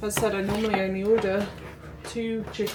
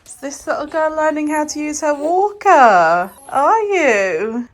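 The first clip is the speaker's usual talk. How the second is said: higher sing-song cooing question; 6 semitones higher, 7 dB louder than usual. Real, not acted. Mum to little girl learning her walker, doting baby talk.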